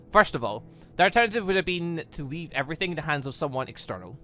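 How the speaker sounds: usual speaking voice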